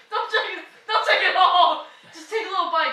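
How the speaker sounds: laughing. Real, not acted. Warning while laughing at friend.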